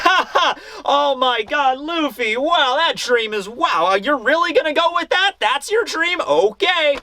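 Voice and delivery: high, laughing mockery of a kid's dream; mocking laughter. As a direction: laugh him off, amused disbelief. Kids laugh at Luffy's dream.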